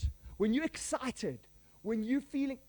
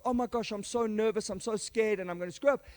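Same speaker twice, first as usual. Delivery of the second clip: mock nervous jitters before a talk; 3 dB louder than usual. Speaker before a presentation, mildly mock nervous. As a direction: play it lightly scared and fretful. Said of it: "go into the presentation and go".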